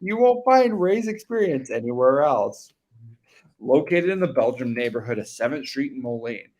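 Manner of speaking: punchy, sing-song commercial read; fake announcer voice. Co-host reading a barbershop ad on air, fake announcer voice. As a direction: sell it in a put-on ad announcer voice. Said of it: "read it better with a fake voice".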